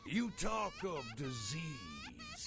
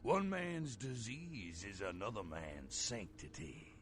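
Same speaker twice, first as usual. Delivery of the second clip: cult bishop. Acted. NPC cult bishop voiced in game.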